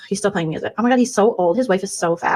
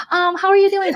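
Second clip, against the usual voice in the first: higher, sugary hello; fake sweet greeting; 11 semitones higher than usual. Two-faced streamer fake-greeting a rival, sugary. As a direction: greet her falsely sweet.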